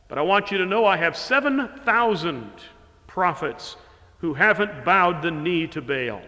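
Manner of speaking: voicing God. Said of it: "And then finally".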